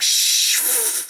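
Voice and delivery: whispered shush. Retold or imitated. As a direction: hush them. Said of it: "The parents are like".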